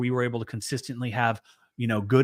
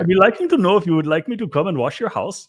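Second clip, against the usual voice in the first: high, loud, put-on Indian accent; hammed-up singsong Indian accent, pitched well up; 7 semitones higher, 6 dB louder, faster than usual. Host showing co-host a favorite accent, exaggerated mock Indian accent. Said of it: "I like Indian accents".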